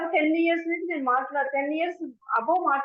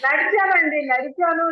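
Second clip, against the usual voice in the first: గర్వంగా నొక్కి చెప్పడం; 4 semitones higher, 6 dB louder, slower than usual. Real, not acted. Proudly tells she walked.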